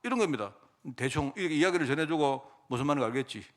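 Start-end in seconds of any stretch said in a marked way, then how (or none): 2.7-3.4 quiet knowing nudge; murmured, lower, a wink in the voice; hushed insinuation to his general; sly hint. Retold or imitated. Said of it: "이런 식입니다".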